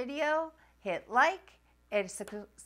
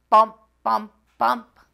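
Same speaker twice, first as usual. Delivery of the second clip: loud bouncing bumps; bumpy bus sounds; 13 dB louder than usual. Acted. Reader acting out the bumpy bus ride, loud bouncy bumps. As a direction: jolt out each bump.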